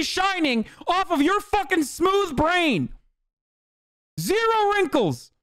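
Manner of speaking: high, slow, sneering falsetto; mocking high voice. Streamer taunting a chatter about his smooth brain, mocking high falsetto. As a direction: stretch it out high like you're taunting a fool.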